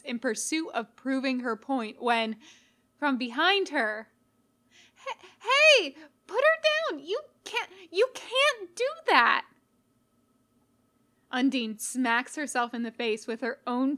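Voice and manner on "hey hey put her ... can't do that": high, loud alarmed yell; shouting in alarm. A narrator's reading. Stranger shouts at Sans to put Becky down, alarmed yell. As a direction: cry out to stop him, high and loud. Character yells from behind.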